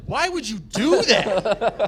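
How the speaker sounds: slow laughing disbelief; mock the lifeguard through a laugh; drawn-out laughing why; laughing quote. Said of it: "she was like".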